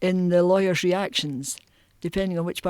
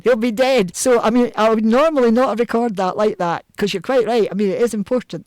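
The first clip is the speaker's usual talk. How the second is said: Highland lawyer; 4 semitones higher, 6 dB louder than usual. Retold or imitated. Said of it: "these guys way up in the Highlands".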